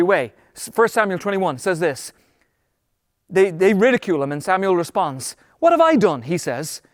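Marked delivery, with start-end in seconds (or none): 5.6-6.2 high-pitched protest at an accusation; indignant protest. Acted. David answering his angry brothers, indignant protest. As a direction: protest as if wrongly blamed.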